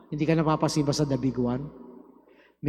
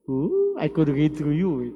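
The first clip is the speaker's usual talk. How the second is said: mock psychic. Mock psychic reading someone.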